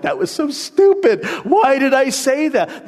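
mocking your own blunder; mock self-scolding. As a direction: groan at your own words. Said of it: "afterwards I'm like".

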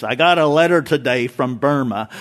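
a light hint of the old radio preacher's accent; understated imitation of the old preacher's accent; J. Vernon McGee's accent. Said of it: "He used to talk like this".

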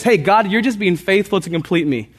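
preacher voicing a glad prayer to God; joyful prayer. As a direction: pray it out gladly, almost laughing. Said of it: "And so I can rejoice".

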